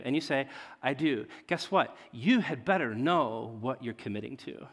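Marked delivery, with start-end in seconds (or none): 0.8-1.2 a hushed, sincere I do before the altar; solemn vow. Shown as a demonstration. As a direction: say I do like a serious wedding vow. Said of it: "the same words, two different contexts".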